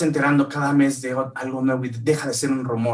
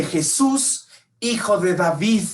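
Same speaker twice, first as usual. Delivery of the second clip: crying out; 5 semitones higher, slower than usual. Retold or imitated. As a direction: call out to be heard over the crowd. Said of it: "cuando Bartimeo grita".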